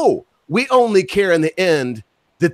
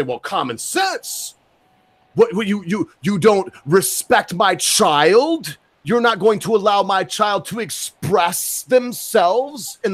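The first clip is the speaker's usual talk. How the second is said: indignant parent. Acted. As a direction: act an affronted parent, stretching the words. Voices an indignant parent objecting.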